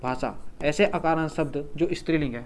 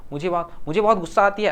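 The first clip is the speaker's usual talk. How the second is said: wrong form shown; 3 semitones higher, faster than usual. Shown as a demonstration. Teacher to students, demonstrating the wrong gender form, mildly raised. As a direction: set up "मुझे बहुत गुस्सा आती है" as the wrong usage to avoid. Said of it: "ऐसा तो नहीं बोलते".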